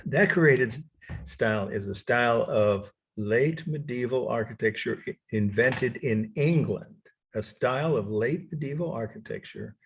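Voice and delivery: measured dictation with long pauses between phrases. Real, not acted. Lecturer giving students a definition to write down, dictation. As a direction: dictate it phrase by phrase for note-takers.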